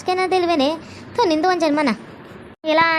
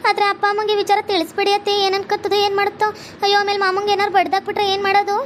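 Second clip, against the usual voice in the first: lightly voiced young woman, higher and fretful; worried young bride; 4 semitones higher than usual. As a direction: fret to the mother-in-law in a higher voice. Bride worries to mother-in-law.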